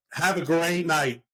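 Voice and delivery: slow, pointed dismissal; curt sendoff. Retold or imitated. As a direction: end the talk with forced politeness. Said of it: "I'm like".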